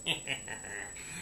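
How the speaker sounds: low, quiet put-on villain laugh; sinister little low laugh; villainous chuckle. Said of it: "in a voice, he says".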